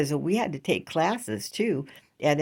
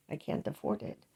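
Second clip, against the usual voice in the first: "I can't afford it" whispered, much softer than the first time; whispered repeat; 9 dB quieter than usual. Real, not acted. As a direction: breathe "I can't afford it" as a hushed aside.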